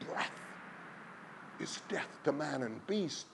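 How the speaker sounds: high, loud frantic crowd cry; people crying out. A narrator's reading. Villagers warn Silver Hands of the wind, loud frantic cry. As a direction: cry out in desperate warning. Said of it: "the people cried in one voice".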